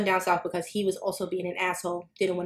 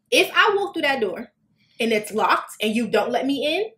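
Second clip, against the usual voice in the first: threatening; 4 semitones higher than usual. Retold or imitated. Retold threat to kick door.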